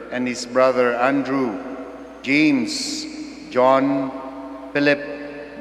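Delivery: solemn measured Gospel reading; Gospel proclamation. Acted. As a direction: proclaim each name deliberately.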